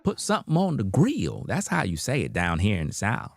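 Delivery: a hint of a Southern lady setting him straight; Southern cashier. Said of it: "She said".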